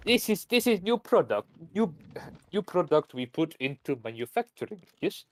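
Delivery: lightly put-on Russian accent; a hint of a Soviet presenter with a Russian accent; mock Soviet official. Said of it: "the Soviets were hilarious".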